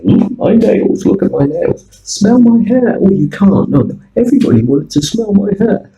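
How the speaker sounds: high, loud tipsy gushing; quoting the drunk doctor in the taxi, high and loud; drunk woman. Retold or imitated. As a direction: imitate a very drunk woman showing off.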